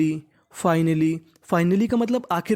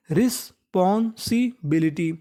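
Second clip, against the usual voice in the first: slow spelled-out demo; slower than usual. Shown as a demonstration. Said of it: "रिस्पॉन्सिबिलिटी का मतलब होता है जिम्मेदारी".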